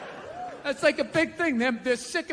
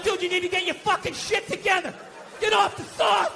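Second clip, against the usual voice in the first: scolding shout; 3 semitones higher than usual. Retold or imitated. Scolding the drunk friend.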